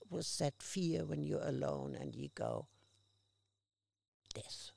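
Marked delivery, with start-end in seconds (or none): 4.3-4.7 a scared near-silent whisper; fearful whisper. Retold or imitated. Alone and afraid, whispering to herself. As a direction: breathe the word out in a whisper.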